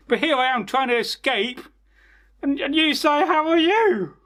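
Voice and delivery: a tiny mouse squeaking in alarm; high-pitched cartoon mouse, surprised; squeaky mouse voice. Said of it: "He said".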